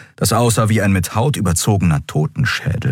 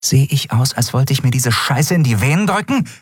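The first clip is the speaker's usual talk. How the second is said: angry, higher snarl; hissing; 6 semitones higher than usual. Acted. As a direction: spit it at him. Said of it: "fauchte sie". (zornig gefaucht)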